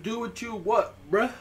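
high, teasing repeat. Pretend. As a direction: toss it off teasingly.

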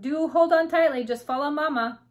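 loud, high motherly call, easing at the end. A narrator's reading. The queen leads her babies off, calling out. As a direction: call back instructions to riders behind. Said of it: "she called".

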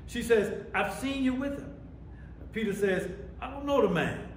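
preacher voicing each side of the exchange; preaching a Bible story. Real, not acted. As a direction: tell it to the congregation with force.

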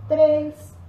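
loud, punchy rep count; shouted count. Real, not acted. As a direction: bark the number to push them.

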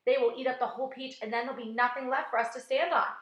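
loud, anxious outburst; panicked cry. A narrator's reading. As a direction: fret aloud in mounting panic. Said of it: "cried Miss Spider, wringing her feet".

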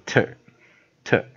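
TER said as a separate syllable with an r-coloured vowel; pronunciation demo. Shown as a demonstration. Teacher showing the word ending, pronunciation demo. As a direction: model TER, then pause and repeat it. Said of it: "这样子发音".

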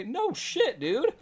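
very high, excited chatter; giddy high squeal. Pretend. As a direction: gush like a thrilled fan. Excited high-pitched reaction voice.

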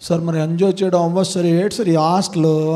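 lightly imitated grumbling student; complaining student. Student complaining to sir about hostel, mock whining. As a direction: grumble to sir like a fed-up pupil.

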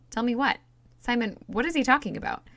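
indignant demand. A narrator's reading. Princess indignant, demanding answer.

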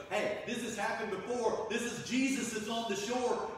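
high and loud, urgent; excited recognition. Retold or imitated. John tells Peter excitedly, high and loud. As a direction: announce it with a rush of excitement. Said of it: "John goes".

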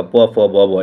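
প, ফ, ব attempted with the lips not closing; lips held apart. Shown as a demonstration. Teacher challenging students to pronounce without lips, প, ফ, ব said open-lipped. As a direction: try প, ফ, ব with both lips kept open. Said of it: "দুই ঠোঁট লাগবে না".

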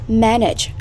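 "Manage" as a word-stress example, MAN-age; first-syllable stress. Shown as a demonstration. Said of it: "âm thứ nhất".

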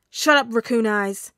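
loud, drawn-out, irritated yell; angry retort. A narrator's reading. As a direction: shout down the teasing classmate. Bakugo snaps at teasing friend.

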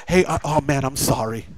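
low, soft, imitated apology; acted-out embarrassed backing down; sheepish apology. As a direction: drop your voice into a mumbled sorry. Voicing a sheepish apology for cussing.

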